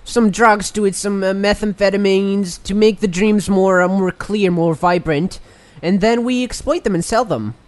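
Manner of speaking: odd put-on pitchman voice; character voice. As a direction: play a shady resort pitchman. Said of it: "Your voice is incredibly different now from when you started".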